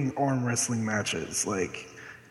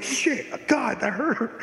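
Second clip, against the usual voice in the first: mock whiny interviewer; 8 semitones higher, much slower than usual. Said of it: "the guy's like".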